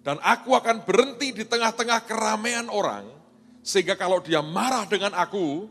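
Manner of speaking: put-on high, loud girl setting her terms; a frightened girl bargaining for safety; nervous bargaining. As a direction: list the conditions eagerly, nervous. Girl sets her conditions.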